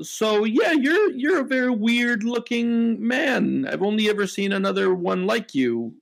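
lightly voiced odd bartender, drawn out; a slow, curious barkeep sizing up a stranger. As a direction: barkeep eyeing a newcomer, slowly.

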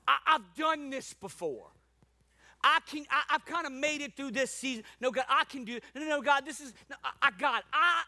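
overeager, broken-off objections; acted stammering protest. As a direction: keep interrupting yourself as you insist. Acts out arguing with God.

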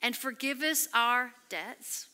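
slow, measured line for people to join; slow congregational recitation; leading a prayer. Shown as a demonstration. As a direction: pace it so the room can follow. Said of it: "Say this with me".

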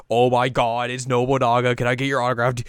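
playfully acted fangirl excitement; starstruck fan. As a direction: gush as if meeting an idol. Acts Kagome starstruck by Nobunaga.

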